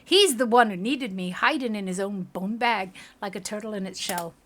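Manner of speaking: lively put-on Scottish retort; bad Scottish accent. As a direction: jeer in a rough-and-ready Scottish accent. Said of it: "my Scottish accent just sucks".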